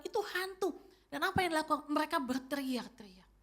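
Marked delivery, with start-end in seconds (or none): 0.0-0.7 a scared disciple crying out; terrified cry. Retold or imitated. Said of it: "saking takutnya mereka nggak cuma bilang".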